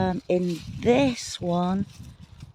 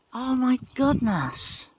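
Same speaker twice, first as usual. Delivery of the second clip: amazed; 5 semitones higher, slower than usual. Real, not acted. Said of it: "That was exciting for me".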